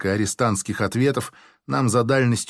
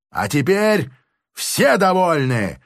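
ordinary delivery

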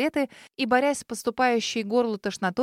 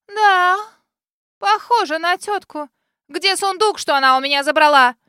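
rude demand; 7 semitones higher, 8 dB louder than usual. Acted. Lady grips the girl's chin and demands the chest, rude. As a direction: sneer then demand the chest.

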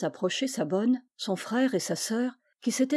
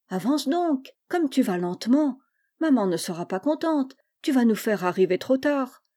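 higher-pitched nagging brother; impatient urging; 4 semitones higher than usual. Acted. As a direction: hurry a dawdling sister along. Brother hurries his lagging sister along. (ton impatient, pour la presser)

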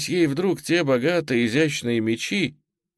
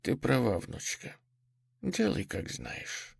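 very quiet; 10 dB quieter than usual. A narrator's reading. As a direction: yield in a hushed voice. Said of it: "сказала она ещё тише".

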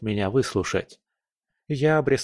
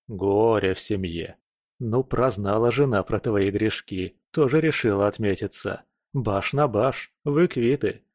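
impatient. Acted. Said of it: "нетерпеливо произнёс я".

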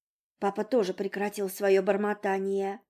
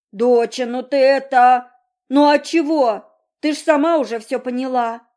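louder, gruff father's bark; flustered father snapping; 4 semitones higher, 10 dB louder than usual. A narrator's reading. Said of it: "гаркнул папа".

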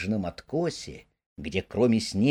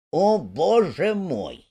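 higher, slow exasperated cry; despairing cry; 6 semitones higher, slower than usual. Acted. Rat despairing at Mole's dullness. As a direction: throw up your hands in despair. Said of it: "вскричал Крыс в отчаянии".

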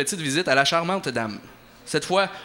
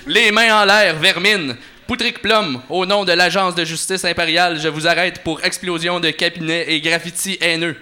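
a cop's loud command; commanding arrest shout; 3 semitones higher, 6 dB louder than usual. Acted. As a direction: bark the arrest much louder. Bounty hunter arresting criminal.

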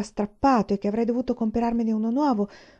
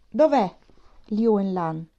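raised, louder call for someone; shouted demand; 4 dB louder, slower than usual. A narrator's reading. Soldier bursts into a classroom hunting a student, shouting. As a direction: call out sharply across the room. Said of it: "e uno gridò".

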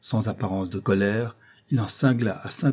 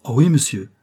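higher, louder happy reply; eager pupil's lifted voice; delighted; 4 semitones higher, 6 dB louder than usual. A narrator's reading. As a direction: answer as a thrilled child. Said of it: "d'un air ravi".

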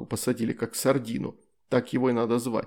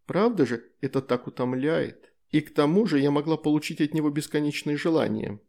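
playful; 3 semitones higher than usual. Acted. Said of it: "игриво произнесла демоница".

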